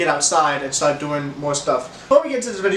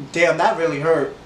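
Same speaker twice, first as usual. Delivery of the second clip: laughing. Retold or imitated. Retelling painful fall at school.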